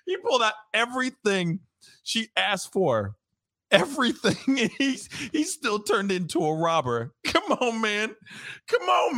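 high, giggly exasperation; laughing disbelief. Real, not acted. Host still laughing at the teller's choice.

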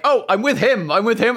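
re-enacted panicky explanation; flustered protest. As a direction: plead your case to the guards. Retold protest to challenging orcs.

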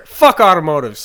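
slow and loud, like a rally cry; loud slow declaration. Real, not acted. Declaring to the listeners, slow and loud. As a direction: proclaim it loudly.

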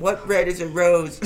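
high, loud, slow mock-dramatic asking; mock earnest question. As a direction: ask it as a hammed-up burning question. Teasing mock burning interview question.

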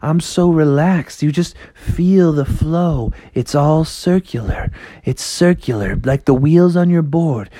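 lightly voiced chilled-out skater dude; a hint of mellow surfer cool; laid-back frog. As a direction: soothe the rabbit with drawn-out, easygoing words.

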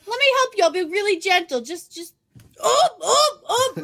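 high, loud sing-song fake gentleness; overly sweet pretend helper; mock gentle voice. Mocking partner's fake gentleness.

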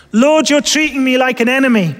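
pleading Job; Job's plea to God. Retold or imitated. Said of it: "is what he's saying".

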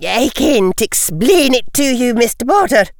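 lightly voiced stern older woman; a grave, worried professor; stern Scottish professor voice. McGonagall exasperated.

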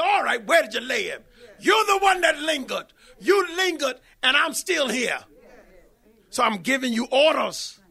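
God telling the sisters he is still here, loud and commanding; God speaking firmly. Acted. God answers the demanding sisters.

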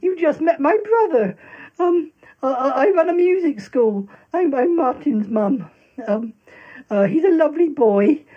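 lightly voiced theatrical mum; a hint of a gushing stage mother; Tallulah voice. Performs Tallulah character.

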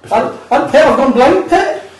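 high, slow mock Geordie; Geordie accent. Shown as a demonstration. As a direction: stretch it out in exaggerated Geordie. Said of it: "I can do a Geordie accent".

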